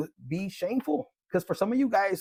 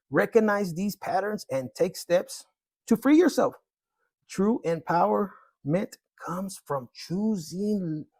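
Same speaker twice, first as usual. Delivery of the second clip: card reading; 4 dB louder than usual. Acted. Reads tarot card text aloud.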